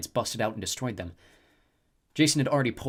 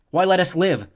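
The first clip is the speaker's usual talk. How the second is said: louder, higher accusation; accusing; 7 semitones higher, 10 dB louder than usual. A narrator's reading. Jason accusing the snow goddess, raised voice. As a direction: point the finger at her.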